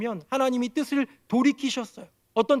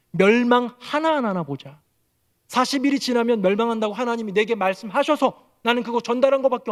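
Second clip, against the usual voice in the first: fuming demand. Acted. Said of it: "씩씩거리면서 기다리는 거예요".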